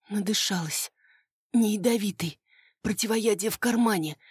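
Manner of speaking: rasped and weak after gas; hoarse wheeze. Acted. Poisoned by gas, she wheezes back to Konrad, hoarse and weak. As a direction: croak it out, barely able to breathe. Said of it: "просипела я".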